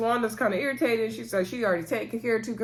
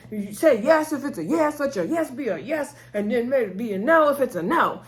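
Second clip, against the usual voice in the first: higher-pitched, mildly exasperated retelling; imitating mad Bernard; 4 semitones higher than usual. Retelling Bernard pushing Marcel for an answer, mildly mad. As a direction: press each yes and no in mock annoyance. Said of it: "Bernard getting mad because Marcel's not sure".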